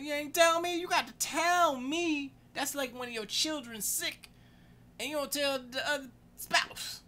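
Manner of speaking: high, loud, drawn-out indignation; retold marital protest, pushed high and slow; outraged complaint. Telling spouse off for not telling him, outraged complaint. Acted quarrel over cat put down.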